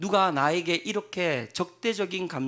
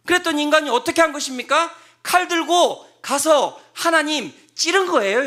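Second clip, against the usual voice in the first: preaching at full force; 8 semitones higher, 9 dB louder than usual. Acted. Preacher shouting the accusation.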